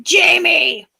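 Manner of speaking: high, drawn-out name call. Real, not acted. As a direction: call out to a friend who may not hear. Calls friend over bad connection.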